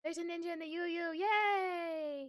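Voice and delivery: high, drawn-out singsong squeal of delight; playful little high-pitched cheer with a long final vowel; cutesy cheer. Pretend. Streamer playfully greets a ninja in chat, cutesy cheer.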